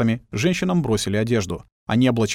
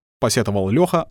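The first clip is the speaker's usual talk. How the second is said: usual speaking voice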